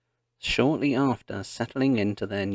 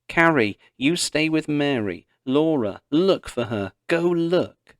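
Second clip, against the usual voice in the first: loud, urgent orders called out; calling back; 5 semitones higher, 4 dB louder than usual. Acted. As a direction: shout instructions while running. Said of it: "calling back".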